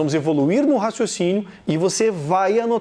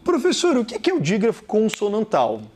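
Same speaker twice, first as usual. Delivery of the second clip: high-pitched student question; 4 semitones higher than usual. Acted. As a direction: ask like a puzzled student. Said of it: "student voiced asking teacher".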